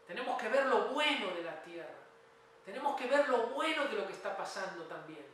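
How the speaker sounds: emphatic exhortation with punched key words; fervent preaching. Real, not acted. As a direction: preach it with conviction.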